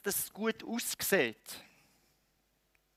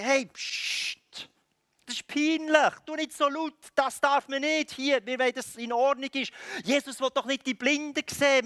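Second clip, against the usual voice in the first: high-pitched, raised-voice telling-off; fussy crowd keeping order; embarrassed scolding; 7 semitones higher, 4 dB louder than usual. Acted. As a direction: hush and scold a noisy nuisance. Embarrassed followers scolding the beggar.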